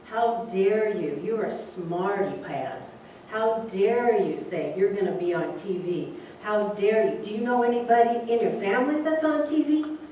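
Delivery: rising, indignant teacher scolding. Retold or imitated. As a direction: scold him like an outraged teacher.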